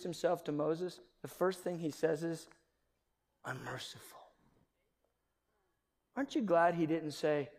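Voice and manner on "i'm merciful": soft divine self-introduction. Acted. God's first words to Moses.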